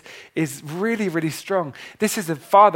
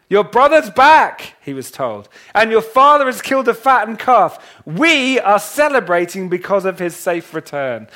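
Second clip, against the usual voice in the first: high, loud servant bursting with the news; excited servant; 4 semitones higher, 5 dB louder than usual. Acted. Servant announcing the brother's return to the older son, loud and high. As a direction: call out the news like a thrilled servant.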